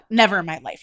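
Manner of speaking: heated. Real, not acted. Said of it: "I'm getting heated up".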